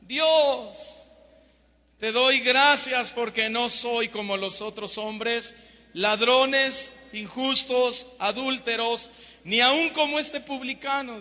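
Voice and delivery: lightly acted haughty Pharisee at prayer; proud Pharisee. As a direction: pray boastfully, listing each kind of sinner. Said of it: "el orgullo y la soberbia del fariseo".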